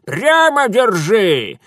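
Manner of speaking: slow, loud, high crone order; old woman ordering him to hold straight; stern command. Acted. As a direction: drag out the order.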